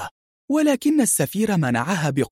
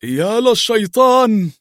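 startled, higher and louder, slow; frightened cry; 5 semitones higher, 4 dB louder, slower than usual. A narrator's reading. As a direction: recoil in fright at the sight of him. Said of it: "وهو يقول مذعورا". (صرخة مذعورة مفاجئة)

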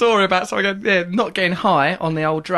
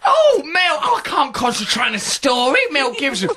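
exasperated viewer; 4 semitones higher than usual. Retold or imitated. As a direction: whine at the screen in hammed-up annoyance. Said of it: "he kept coming up talking".

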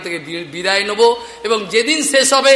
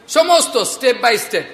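slowly spelled out; 3 semitones higher, much slower than usual. Real, not acted. Preacher stressing gradual spiritual practice.

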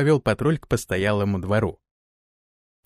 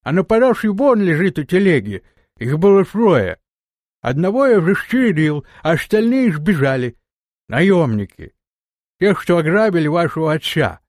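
steppe warrior voice; 4 semitones higher, 5 dB louder than usual. Acted. Erzai, steppe man's voice.

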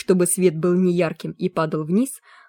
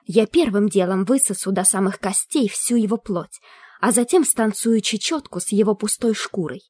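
menacing ghost skull; 3 semitones higher than usual. Acted. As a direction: relish every gruesome promise. Skull threatens Kipps.

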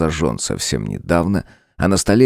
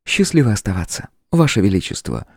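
голос демоницы; 5 semitones higher than usual. A narrator's reading. Демоница прощается.

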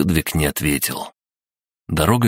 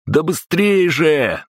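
urgent shout; 12 semitones higher, slower than usual. Acted. Knight pushing him to run.

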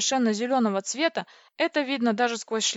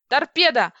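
high, loud battle cry; roar; 5 semitones higher, 8 dB louder than usual. A narrator's reading. Heroine firing at a pursuer, roaring. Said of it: "рявкнула я".

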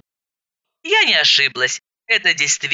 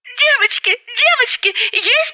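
much higher, chirping; chirpy high voice; 14 semitones higher than usual. Acted. Roza arriving, chirping high to the women. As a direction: chirp like a bubbly woman. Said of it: "закричала".

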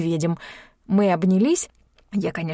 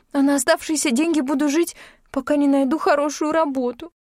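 tearful babbling; 8 semitones higher than usual. A narrator's reading. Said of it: "пролепетала".

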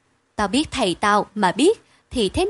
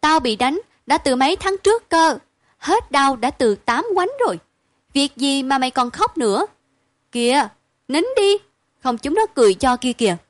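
higher, coaxing comfort; 4 semitones higher than usual. Acted. Nhớn comforting the crying Đức, higher and coaxing. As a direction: soothe a crying friend, hurry him to stop. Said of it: "Cô nhớn lại vội vàng an ủi".

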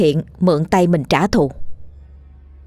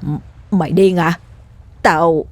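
put-on faltering, weakly protesting old man; feeble gasping denial. Half-drowned old man denying the killing, feebly. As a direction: stammer a weary denial. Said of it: "Lão liền thều thào chối bỏ".

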